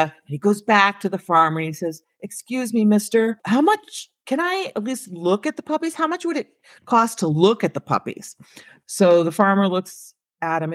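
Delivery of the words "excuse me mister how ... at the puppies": put-on higher, tentative child's plea; a small boy's hopeful question to a grown-up; lightly voiced kid, pitched up; little boy. Little boy tries again with farmer.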